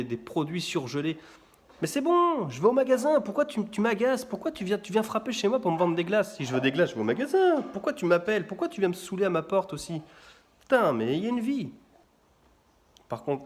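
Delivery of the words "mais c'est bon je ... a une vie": annoyed rant. Retold or imitated.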